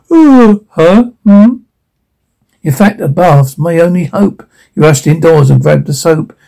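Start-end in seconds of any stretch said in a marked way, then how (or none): 0.1-1.6 high, loud startled grunts. Acted. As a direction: jolt awake with a "huh?". Startled from sleep.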